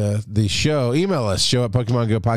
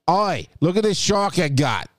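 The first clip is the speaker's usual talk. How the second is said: deliberately bad, hammed-up Australian accent; 5 semitones higher than usual. Host imitating a listener catching sharks, bad Australian accent. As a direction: toss off a cheesy Australian "Oi". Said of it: "my worst Australian accent I can do".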